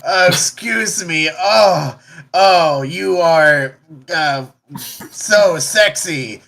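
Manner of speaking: slow, swooning flirt; flirty swoon. Acted. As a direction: drag it out like a lovestruck brute. Helga flirting with the lady.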